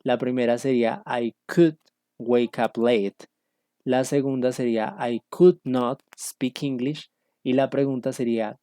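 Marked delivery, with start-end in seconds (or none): 1.1-3.3 "could" with silent L, slowly spaced words; careful teacher's "could", no L sounded; model pronunciation. Shown as a demonstration. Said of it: "para que ustedes capten la pronunciación". 5.0-7.1 slow, word by word, silent L in "could"; careful "could" like "cood"; model pronunciation. Shown as a demonstration. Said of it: "para que ustedes capten la pronunciación".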